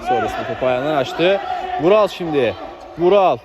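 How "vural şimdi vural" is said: rising commentator excitement. Real, not acted. Attack build-up in commentary.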